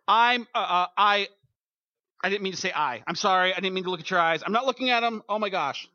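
loud, stammering, embarrassed apology; flustered apology. Pretend. Churchgoer flustered after being caught staring at the pastor.

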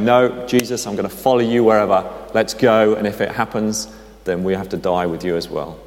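mildly brave, resolute declaration; a touch of courage, easing down at the end; brave and courageous. Acted. Thomas pledging to follow Jesus wherever, mildly courageous. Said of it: "a little bit more brave and courageous".

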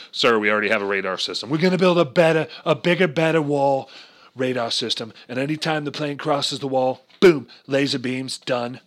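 lightly voiced Trump bragging; Trump impression. Comic doing Trump for the crowd, a light impression. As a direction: boast like a showman president.

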